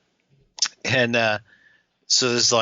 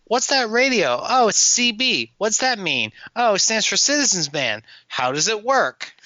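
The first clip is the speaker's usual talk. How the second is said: mock movie dialogue; 10 semitones higher than usual. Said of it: "So then is it like".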